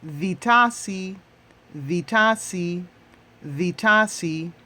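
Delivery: vitasi drilled three times, the first take slow; Swahili model word. Shown as a demonstration. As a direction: model vitasi carefully for learners. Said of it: "How do you say fruit baskets in Swahili?".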